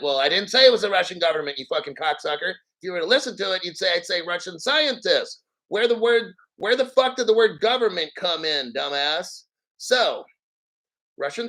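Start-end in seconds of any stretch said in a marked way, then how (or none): 0.0-9.4 angry retort. Retold or imitated. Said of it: "I'm like".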